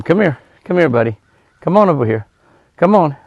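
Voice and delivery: short, friendly summons; coaxing an animal over. Real, not acted. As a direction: coax a shy animal toward you. Calling the deer over again.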